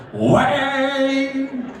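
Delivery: high sung gong sound Wang; gong imitation. Manager strikes a gong at the table, sung gong call. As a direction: mimic the gong, ringing and high. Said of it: "and goes".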